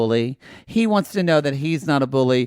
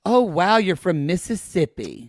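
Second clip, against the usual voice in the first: mock impressed; 4 semitones higher than usual. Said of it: "No one goes".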